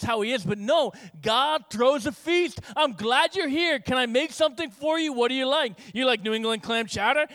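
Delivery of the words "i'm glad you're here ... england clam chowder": eager welcoming host. Acted. Voicing God welcoming home.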